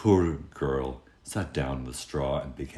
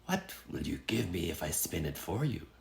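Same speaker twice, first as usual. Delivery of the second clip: sly little man; 8 dB quieter than usual. Acted. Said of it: "said the little man".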